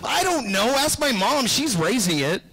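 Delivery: high, breezy mock-clueless voice; shrugging it all off; a hint of a deadbeat dad's brush-off; careless dad. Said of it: "Is it a boy or a girl?".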